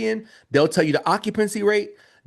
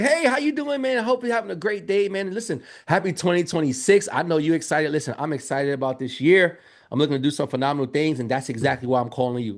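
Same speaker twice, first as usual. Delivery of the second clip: upbeat caller. Shown as a demonstration. Demo of how to greet the building on the phone, upbeat. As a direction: sell it with good energy. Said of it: "call, like".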